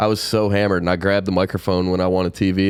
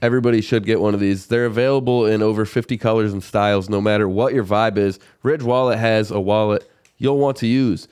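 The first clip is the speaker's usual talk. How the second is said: upbeat sponsor read. Acted.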